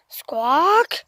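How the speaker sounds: voiced rising squawk. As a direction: call out like a parrot. I heard that.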